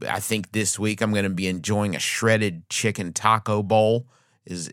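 usual speaking voice

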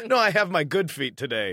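loud, simplified English for a foreigner; simpleton English. Retold or imitated. Traveler repeats her reply to a Korean helper, simpleton English. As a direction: imitate yourself talking simpleton English. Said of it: "I'll use simpleton English for you".

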